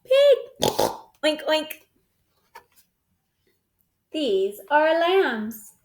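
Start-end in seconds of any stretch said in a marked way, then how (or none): 0.0-0.4 high, loud call of the animal name; bright excited shout of the name; excited announcement. Acted. Announcing the sound button. 1.2-1.7 soft little oinks; quiet mock oink; piglet oink. Shown as a demonstration. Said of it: "Do it again".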